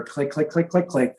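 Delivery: light crisp "click, click" imitating cricket frogs; clicking frog call. Shown as a demonstration. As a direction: tick off each "click" like stones. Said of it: "sounds like somebody clicking two stones".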